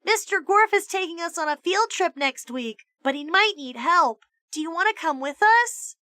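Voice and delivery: put-on high, bright girl's voice; sweet girl voice, faked; Allison's voice. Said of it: "using Allison's voice".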